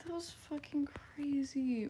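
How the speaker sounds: same words dropped to a whisper; whispered disbelief. Real, not acted. Repeating the reaction to chat in a stunned whisper. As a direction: mutter it under breath in shock.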